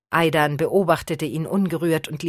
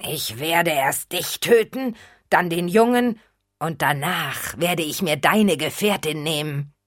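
growling. Acted. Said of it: "Der Untote knurrte".

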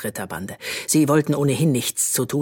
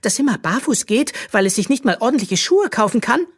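much higher, louder sneering jibe; mocking; 10 semitones higher, 4 dB louder than usual. A narrator's reading. Princess ridiculing barefoot Bö, sneering. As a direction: belittle her poor dress. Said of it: "entgegnete Magnesia spöttisch".

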